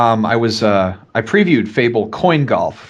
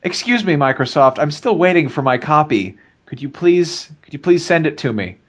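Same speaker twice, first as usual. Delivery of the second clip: mock whiny pleading; 3 semitones higher than usual. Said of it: "write them an email and say".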